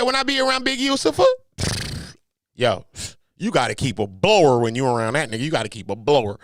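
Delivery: lightly put-on LA street accent. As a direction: imitate a warning in an LA accent. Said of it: "That's my little L A accent".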